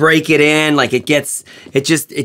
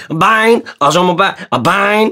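imitated Quebecois French accent; 3 semitones higher, much slower than usual. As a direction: do a hearty mock Quebecois accent. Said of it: "he does a French accent from the Quebecois".

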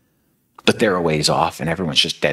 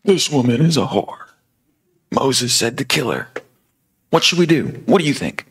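accusing Pharisees; 9 semitones higher than usual. Retold or imitated. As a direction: sneer like a crowd of accusers. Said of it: "they start accusing her".

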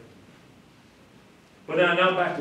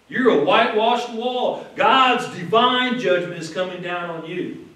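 loud, raised-pitch denunciation; indignant rebuke; 4 semitones higher, 6 dB louder than usual. Retold or imitated. Paul denounces the high priest who had him struck, indignant and loud. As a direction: pronounce judgment with force. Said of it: "he was kind of taken aback for a moment".

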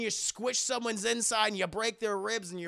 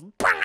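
imitated snap; 11 semitones higher, 9 dB louder than usual. Arm is snapped.

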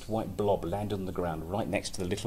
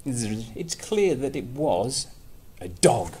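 slow, buzzy fly voice; buzzing flies; 4 semitones higher, 5 dB louder, slower than usual. Acted. Flies giving their verdict to the mole, slow buzz. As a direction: drone it out slowly like a fly. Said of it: "buzzed the flies".

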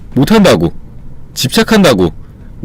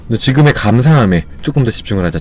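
gentle self-soothing; 3 semitones lower, 3 dB quieter than usual. Retold or imitated. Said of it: "마음을 좀 토닥여주고".

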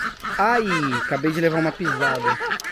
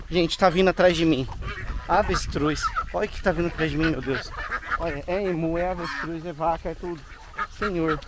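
being chased; 7 dB quieter than usual. Real, not acted. Animals following her, hushed alarm.

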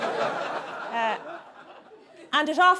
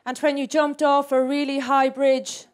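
poetry reading. Acted. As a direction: recite it like a serious poem. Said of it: "here's another one".

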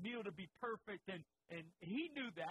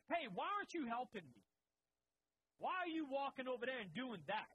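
mildly annoyed; 3 semitones higher than usual. Retold or imitated. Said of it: "I really start getting annoyed".

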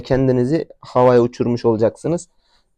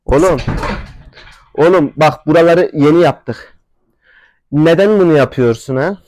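raised, higher scolding voice; exasperated scolding; 3 semitones higher, 4 dB louder than usual. Real, not acted. Owner scolding his horse for wrecking the place, exasperated. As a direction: tell off a misbehaving animal, voice up. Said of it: "Ben de delleneceğim sonunda".

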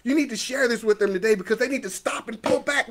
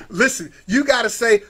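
ordinary delivery

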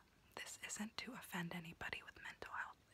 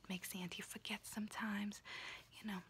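whispering auntie roleplay; 3 semitones higher than usual. Acted. Auntie whispering to her niece while doing her nails, in a confiding unvoiced whisper. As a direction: whisper close and chatty like a kooky aunt doing your nails.

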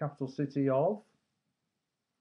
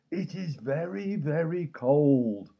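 teeth chattering; 4 semitones higher, 6 dB louder, slower than usual. Pretend. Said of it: "it's just me, being silly".

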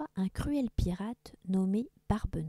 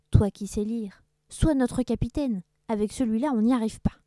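louder, lightly voiced rough crew; pirate crew; 3 semitones higher, 6 dB louder than usual. Crew begs the old teacher to captain them. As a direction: ask him to lead them.

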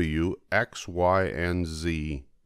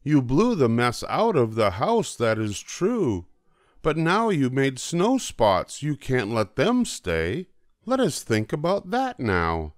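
put-on a child's voice pitched higher, calling out to the cats; excited child calling out; 6 semitones higher than usual. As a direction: call out higher, like an excited kid pointing. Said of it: "I said".

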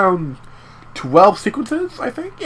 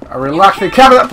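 called out louder, a little impatient; 3 dB louder than usual. Shown as a demonstration. Player calling out again for a carriage, louder. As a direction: call it again so the driver hears. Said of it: "I said a relaxing carriage".

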